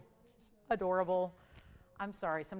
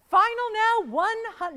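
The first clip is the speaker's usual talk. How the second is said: much louder, higher urgent call; loud auction call; 13 semitones higher, 13 dB louder than usual. Real, not acted. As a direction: call it out to the room. Auction host calls final minutes.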